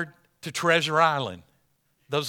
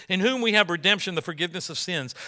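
quicker reread; 3 semitones higher, faster than usual. Shown as a demonstration. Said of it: "See that, that whole section".

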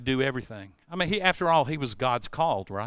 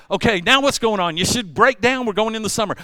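excited pleading; 5 semitones higher, 5 dB louder than usual. Retold or imitated. Retold back-and-forth with the boss.

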